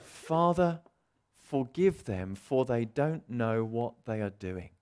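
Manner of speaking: slow, gentle plea; tender plea. Retold or imitated. Jesus on the cross forgiving, slow and gentle. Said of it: "we hear these words".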